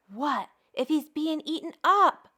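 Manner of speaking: anxious storybook cry; crying out in fear. Acted. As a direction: Toad fears the worst for Frog. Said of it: "cried Toad".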